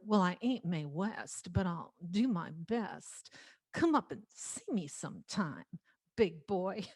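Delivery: lightly put-on screen siren accent; Mae West. Little girl performing for her mother, Mae West impression. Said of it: "this little girl that put on that accent".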